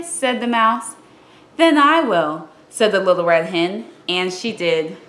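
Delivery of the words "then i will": higher and louder, resolute; the hen taking charge, loud and high; determined hen. Acted. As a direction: declare it firmly as the hen. Hen decides alone.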